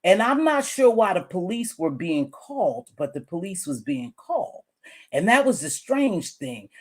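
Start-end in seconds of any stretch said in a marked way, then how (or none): 5.1-6.7 talking while chewing gum; words around a piece of gum. Real, not acted. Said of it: "Excuse me, I'm chewing gum".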